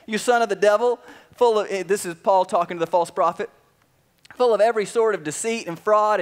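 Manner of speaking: angry rebuke. Acted. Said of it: "he was not happy when he said this".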